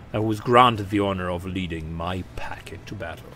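proud warrior chieftain. Acted. Warrior greeting a mortal before battle, mildly imposing. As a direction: announce yourself as a battle leader. Voices warrior Thorvald Ironhide.

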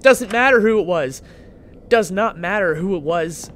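loud, adamant dismissal; emphatic refusal. Real, not acted. Player refusing to heed a creepy voice, loud and adamant. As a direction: refuse loudly, hitting each word. Startled by monitor voice in game.

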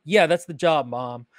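offhand, dropping away on Mom; everyday casual. Shown as a demonstration. Son answering his mom, everyday and casual. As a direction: say it like a real person talks. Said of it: "how real people talk".

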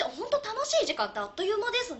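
put-on cute voice. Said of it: "急に声作りやがって".

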